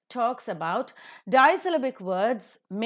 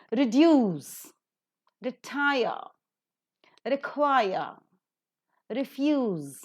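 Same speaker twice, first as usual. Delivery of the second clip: light "re", strong long root, as in re-DUCE and re-TIRE; each word from "reduce" to "report" apart, second syllable drawn out; stress on root; 4 semitones higher, much slower than usual. Shown as a demonstration. Teacher modelling word list for students, root stressed after weak "re". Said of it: "then also the root word is stressed".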